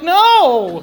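loud, high laughing refusal; emphatic no. Retold or imitated. Customer refusing the massage, loud laughing no. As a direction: blurt a loud no, half laughing. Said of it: "I'm like".

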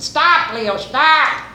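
high-pitched mock yell; urgent call. Cousins to Leo driving with windows down, urgently calling. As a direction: call to the driver to halt.

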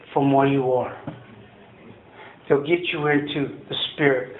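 low, measured and heartfelt; sincere encouragement. Real, not acted. Speaker closing a recovery meeting with hope, sincere and reassuring. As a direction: reassure them gently, with pauses between phrases.

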